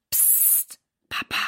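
put-on soft, hushed child's signal; whisper. A narrator's reading. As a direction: whisper to get a father's attention. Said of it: "flüstert Silas".

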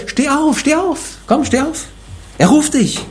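very high, rising plea to get up; urgent call. Acted. Preacher urges the congregation to rise like Bartimaeus, high urgent call. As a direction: urge them to stand up, building intensity. Preacher urging listeners, calling out.

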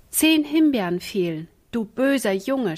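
put-on mild scolding of a naughty boy; a touch of reproach; lightly voiced sister telling him off. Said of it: "schalt sie".

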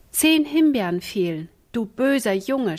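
a touch of a scolding sister; lightly voiced telling-off; mild scolding. Ina scolds Michael for eating the raspberries, mild scolding. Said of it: "schalt sie".

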